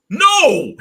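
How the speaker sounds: high, loud cry of disbelief; shocked no. Retold or imitated. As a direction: yelp it out in shock. Shocked reaction to misspelled name.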